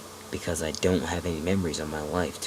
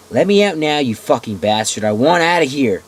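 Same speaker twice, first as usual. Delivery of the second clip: furious shouting; 6 semitones higher, 10 dB louder than usual. Acted. Shouting at captor.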